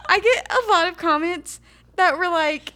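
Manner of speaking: talking through laughter; laughing. Real, not acted. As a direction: laugh as you speak.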